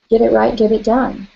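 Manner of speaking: insistent self-talk, mildly pushy. Acted. Tapping coach voicing what we tell ourselves, insistent.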